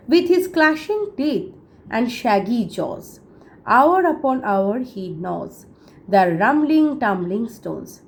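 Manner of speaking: slow, measured reading of a poem; poem recitation. Acted. Teacher reciting a poem to students, slow and measured. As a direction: read each line slowly and with weight, like verse.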